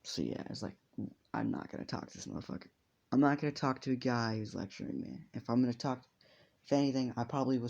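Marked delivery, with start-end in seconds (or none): 1.3-2.7 fast whispered refusal; a quick, muttered refusal under the breath. Acted. Zuko's inner refusal.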